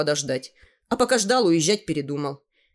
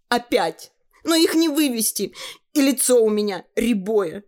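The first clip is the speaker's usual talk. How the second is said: put-on girl's voice; 6 semitones higher, 3 dB louder than usual. Girl replying.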